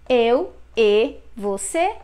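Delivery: "e" in "Eu e você" said as a closed, short ee sound; slow it down and close the "e". Shown as a demonstration. Teacher modelling "Eu e você" with a closed e. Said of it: "Notice is closed sound".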